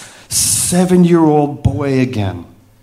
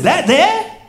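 pirate captain voice. Retold or imitated. Captain pointing at the shark, teasing the scared tourist in a hammed-up pirate voice. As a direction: stretch it out like a knowing old sea dog. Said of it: "so you're gonna get pirate".

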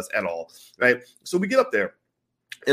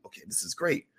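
whispered thought; 7 dB quieter than usual. Retold or imitated.

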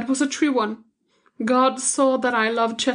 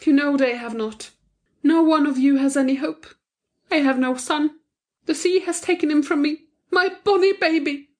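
much higher, rising into a wail of grief; anguished mother; 9 semitones higher than usual. A narrator's reading. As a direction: break on the last words. Thyra's grief rises.

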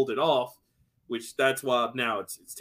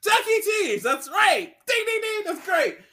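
game show host; slower than usual. Acted. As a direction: announce the right answer like a quiz host. Game-show announcing right answer.

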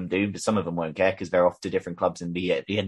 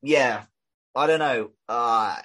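flustered Peter Parker; 4 semitones higher than usual. Retold or imitated. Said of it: "climbs over a rail and he goes".

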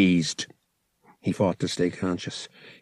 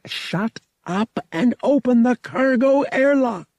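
higher, louder wheezed command; wheezed order; 14 semitones higher, 4 dB louder than usual. A narrator's reading. Injured pilot snapping at droid, wheezed order. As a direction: cut the droid off. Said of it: "Han wheezed".

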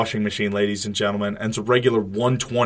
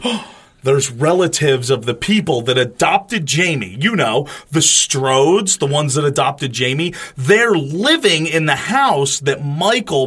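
mock revelation; 2 semitones higher, 3 dB louder than usual.

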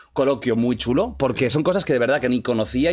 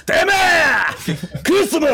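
much higher, louder laughing yell of Teme and Kisama; anime shout; 14 semitones higher, 4 dB louder, slower than usual. Pretend. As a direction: ham it up like an anime villain. Hammed anime insult after teasing.

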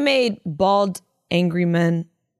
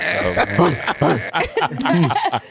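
deep laugh; 5 semitones lower than usual. Real, not acted. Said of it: "That was too deep".

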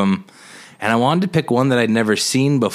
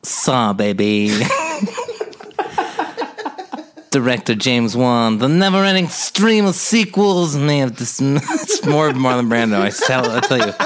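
James Dean impression. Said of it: "Jim Stark reading about the movie Saw".

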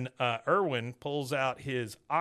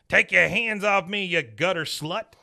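mock angry outburst; 6 semitones higher, 6 dB louder than usual. Old man yelling at daughter.

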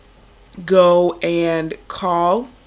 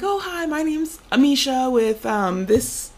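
high, chirpy call-center pitch trailing off; a bright caller reading a script she has stopped caring about; telemarketer spiel; 3 semitones higher than usual. Retold or imitated. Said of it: "I was like".

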